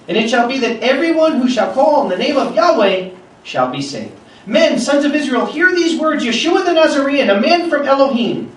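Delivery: preacher reading Acts aloud to his flock, proclaiming; scripture reading. Acted. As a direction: proclaim the passage to the congregation. Reads Peter's sermon aloud.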